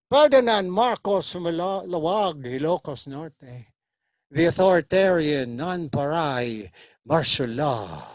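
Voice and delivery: slow deliberate listing; slow, weighty. Acted. Father describes Marcos, slow and heavy. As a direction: drag each word out gravely.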